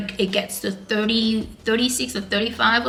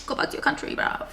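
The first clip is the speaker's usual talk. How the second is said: hostile Englishman; 4 dB quieter than usual. Retold or imitated. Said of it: "In England, people would be like".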